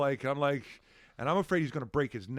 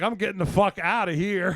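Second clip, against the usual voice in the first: laughing exit line; 4 semitones higher, 7 dB louder than usual. Retold or imitated. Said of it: "so I was like".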